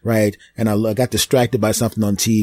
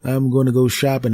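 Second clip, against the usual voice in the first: sister asking; 7 semitones higher than usual. Retold or imitated. Sister voiced asking for babysitting.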